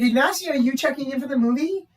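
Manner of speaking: high, loud imitated desk call; wholehearted greeting. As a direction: call out brightly to check someone in. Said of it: "meant it, like, so wholeheartedly".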